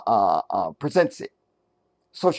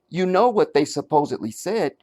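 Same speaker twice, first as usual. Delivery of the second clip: gentle question. Shown as a demonstration. Host showing the singer asking, not stating: gentle rising question. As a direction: ask it lightly, ending with a rise on "said". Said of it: "she asks".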